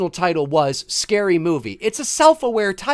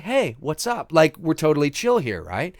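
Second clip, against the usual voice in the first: subtle casual caller; 2 semitones lower, 3 dB quieter than usual. Retold or imitated. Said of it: "It's very subtle, like".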